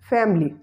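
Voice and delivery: "family" as two syllables, FAM-lee; schwa after M deleted. Shown as a demonstration. Teacher showing the silent schwa, "family" said as FAM-lee. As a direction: run M straight into L in "family". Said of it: "The schwa sound after M".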